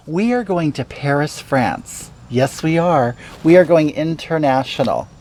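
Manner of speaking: campy homely witch host; put-on cooking show hag; Hagatha character voice.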